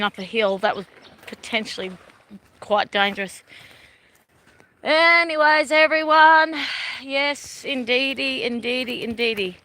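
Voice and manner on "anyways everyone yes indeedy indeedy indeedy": higher, louder bright sign-off; sing-song farewell to viewers; cheery sign-off. Real, not acted. Vlogger signing off her live stream, cheery and loud.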